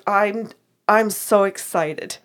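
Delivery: slow, drawn-out excited quote; retold excitement. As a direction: imitate his delight, stretching the words out. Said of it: "the freaking biggest smile on his face".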